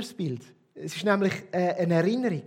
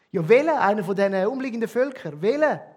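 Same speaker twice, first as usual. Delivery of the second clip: insistent demand; 3 semitones higher, 7 dB louder than usual. Acted. Moses imagines the people demanding.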